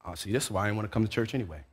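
under your breath. Retold or imitated. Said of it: "you really say it under your breath".

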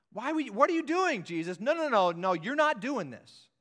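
high, loud, horrified protest; alarmed protest. Retold or imitated. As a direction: stop him in disbelief. Voicing Peter's protest to Jesus.

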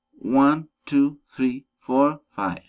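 "One, two, three, four, five" as separate list items, the last falling; enumerating intonation. Shown as a demonstration. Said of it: "rising intonation".

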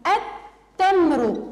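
التمر very slow, lam silent, تّ doubled; stretched التمر with a doubled t; slow sun-letter demo. Shown as a demonstration. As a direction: drag out التمر as a-tta-mru. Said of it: "اللام في كلمة التمر لم تلفظ".

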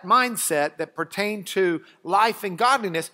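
ordinary delivery

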